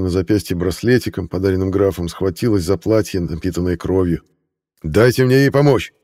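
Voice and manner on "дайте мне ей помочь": loud, higher furious roar; roaring demand. A narrator's reading. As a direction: roar at the guards to let him help. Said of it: "взревел граф".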